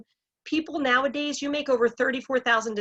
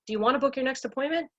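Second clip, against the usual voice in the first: quick, higher ask, lifting on "appointment"; unsure rising question; 4 semitones higher, faster than usual. Retold or imitated. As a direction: imitate the timid script, rushing up to "next appointment?". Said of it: "the inflection when you get to the desk".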